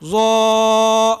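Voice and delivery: زا said with the tongue tip between the teeth; letter demo. Shown as a demonstration. Teacher showing the tongue position, a careful زا. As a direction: model a clear زا. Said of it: "تو زا ہی ادا ہوگا".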